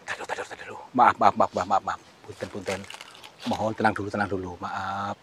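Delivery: soft, fading murmured sorry; hushed apology. Real, not acted. Host murmurs apologies to the angry spirit.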